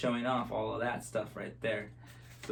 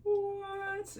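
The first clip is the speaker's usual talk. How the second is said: mock surprise; 4 dB quieter than usual. Dove appears.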